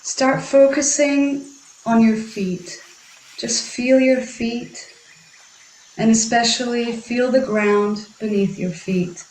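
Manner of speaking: unhurried meditation guidance with long pauses; guided meditation. Acted. Guiding listeners to feel the ground beneath their feet, guided meditation. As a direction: guide them gently inward, leaving space between phrases.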